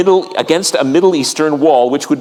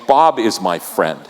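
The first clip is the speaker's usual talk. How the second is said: intimate; 7 semitones lower than usual. Shown as a demonstration. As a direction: say "Bob" like a close friend's name. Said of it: "There's an intimacy that happens when you use the name".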